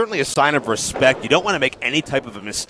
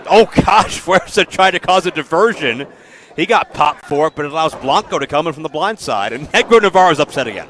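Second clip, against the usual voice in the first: louder excited call, quickening at the end; lucha libre announcer; 2 semitones higher, 4 dB louder than usual. Real, not acted. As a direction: react and call the spot live. Live call of a distraction spot.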